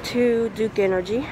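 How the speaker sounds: muffled through a mask; talking through a face mask; behind welding mask. Real, not acted. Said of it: "hear me with this mask on".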